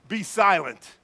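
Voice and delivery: loud, forceful command; firm order, punched out then dropping in pitch; stern rebuke. Acted. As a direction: rebuke a spirit with authority. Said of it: "But Jesus rebuked them".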